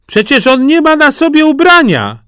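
put-on high, loud child's voice; small child. Small child points out the naked emperor, high voice. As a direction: blurt it out like a little kid. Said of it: "powiedziało małe dziecko".

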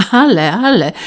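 host suddenly remembers, calls out across the dinner table. A narrator's reading. Host interrupts the table, a sudden hearty call. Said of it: "zawołał nagle Rawski".

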